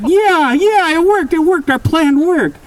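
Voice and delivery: very high, triumphant cheering; gleeful celebration. Acted. The two boys cheering after killing Matthew, triumphant. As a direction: crow over the win.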